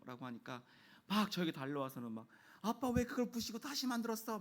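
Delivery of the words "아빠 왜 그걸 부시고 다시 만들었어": high-pitched mimicked child's protest; accusing tearful child. Child confronting dad about the rebuilt blocks, imitated high accusing whine. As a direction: act out a kid tearfully taking dad to task, high. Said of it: "저한테 따지듯이 울기 시작했습니다".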